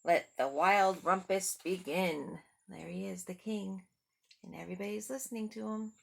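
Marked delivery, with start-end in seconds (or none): 0.0-2.4 loud gleeful announcement; cried out. Acted. Max announces the rumpus, loud and gleeful. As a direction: kick off the party with a shout. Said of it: "cried Max".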